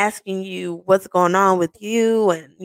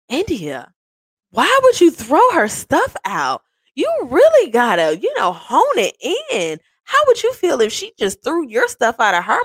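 scolding sister; 5 semitones higher than usual. Retold or imitated.

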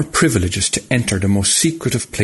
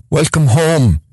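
reverent; 7 semitones higher, 4 dB louder, slower than usual. A narrator's reading. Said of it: "he said reverently".

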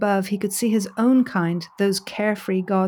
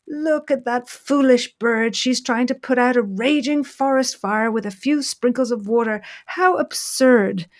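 mocking gods; 3 semitones higher than usual. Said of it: "they exclaimed".

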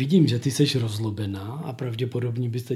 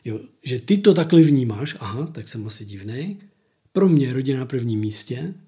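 mock hurt narcissist. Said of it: "on má soucit nějaký".

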